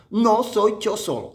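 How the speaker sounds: "No soy yo solo" pitched high, leaning on "No"; emphatic quote. Shown as a demonstration. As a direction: hit "No" high and firm, then fall through "soy yo solo". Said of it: "Tomemos este, esta palabra en cuenta".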